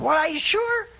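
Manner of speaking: high, sceptical mock query; a hint of a doubting Thomas; doubtful question. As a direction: raise an eyebrow with your voice. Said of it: "I can imagine Thomas saying".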